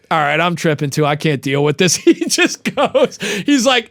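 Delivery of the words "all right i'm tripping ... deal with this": emotionally unavailable. Retold or imitated. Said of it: "emotionally intelligent. He's just like".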